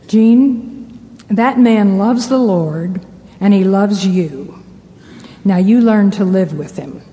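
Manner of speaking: mild, measured fatherly firmness; lovingly firm. Retold or imitated. Father advising his complaining daughter, lovingly firm. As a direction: gently lay down the advice, kindly but firm. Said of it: "very lovingly but very firmly".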